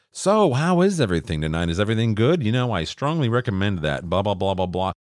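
lightly mocked chipper host, trailing into blahs; a hint of gushing hospitality; front-of-house manager. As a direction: imitate a manager working the tables. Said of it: "a front house manager or an owner".

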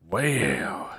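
ordinary talk, nothing marked

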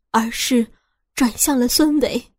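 plain reading voice

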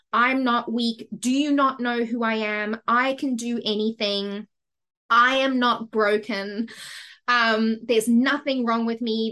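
half-performed defiant outburst at the doctor; retold screaming at doctor. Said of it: "I started screaming at her".

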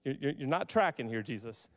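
low, halting, restrained frustration; a bit frustrated. Retold or imitated. A father telling Jesus he misunderstands, mildly frustrated. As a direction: stammer a correction, holding frustration in. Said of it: "a bit frustrated".

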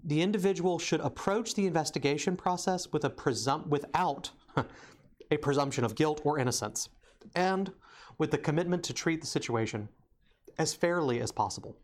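holding back hiccups mid-sentence; suppressing hiccups. Real, not acted. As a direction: talk while fighting hiccups. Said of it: "Sorry, I have the hiccups".

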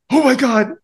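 high, loud excited squeal; kids freaking out. Retold or imitated. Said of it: "my kids are like".

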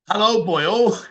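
mock Welsh lilt; Welsh accent. Streamer trying out accents for viewers, mock Welsh accent. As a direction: have a go at a Welsh greeting. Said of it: "Welsh, Welsh, Welsh".

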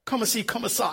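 softly tossed-off French reply; would-be cool French. Retold or imitated. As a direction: toss it off quietly, trying to sound cool. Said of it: "I thought it sounded kinda cool".

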